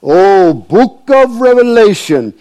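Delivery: put-on high-pitched, thick Indian accent; slow, high Indian-accented impression; M A Thomas, thick Indian accent. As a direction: imitate an Indian preacher's accent, pitched well up and emphatic. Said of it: "in his thick Indian accent".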